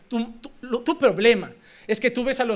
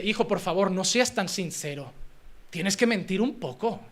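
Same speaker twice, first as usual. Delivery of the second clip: mock gentle parent; 4 semitones lower, 7 dB quieter than usual. Voices a parent gently advising child.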